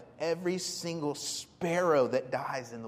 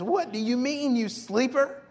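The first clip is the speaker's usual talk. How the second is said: mock angry captain, higher and louder; scolding captain; 7 semitones higher, 6 dB louder than usual. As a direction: scold the sleeping prophet, half-acted. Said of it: "He's calling him a name".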